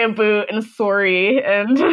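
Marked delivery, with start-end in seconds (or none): 0.0-0.5 playful Canadian "aboot"; imitated Canadian "aboot"; Canadian accent. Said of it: "they do say". 0.6-1.4 Canadian "sorry" with a rounded first vowel; imitated Canadian "soo-ry"; Canadian accent. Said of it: "they do say".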